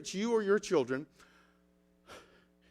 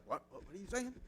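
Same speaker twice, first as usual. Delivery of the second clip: put-on puzzled kids; 13 dB quieter, faster than usual. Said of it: "And they're like".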